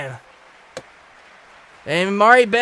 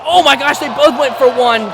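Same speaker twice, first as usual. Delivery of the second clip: excited outburst; 3 semitones higher, 8 dB louder than usual. Real, not acted. Commentator reacting as both wrestlers connect, excited outburst. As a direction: burst out, stunned by the exchange.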